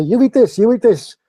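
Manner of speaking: high, loud mock ordering; imitated pushy restaurant staff. Retelling how restaurant staff told diners what to have, pushy mock voice. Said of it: "They say".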